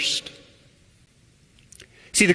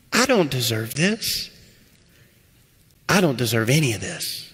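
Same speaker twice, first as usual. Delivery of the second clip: humbled gratitude; 3 semitones lower than usual. Pretend. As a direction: say it like you can't believe the gift. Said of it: "it's the same phrase, but it sounds a whole lot different".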